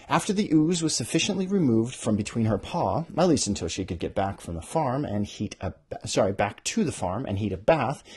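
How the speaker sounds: lightly voiced book reading; story narration. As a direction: read the passage like a storyteller. Reads her novel aloud.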